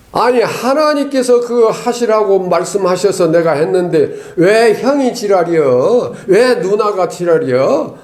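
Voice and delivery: hammed-up flare of temper; mock angry protest. Preacher acting out how he would snap at siblings, mock angry. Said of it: "막 이렇게 화를 내고".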